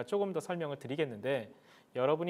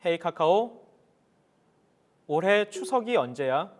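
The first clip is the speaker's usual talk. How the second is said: talking to voice assistant; 3 semitones higher, 6 dB louder than usual. Real, not acted. Commanding smart speaker.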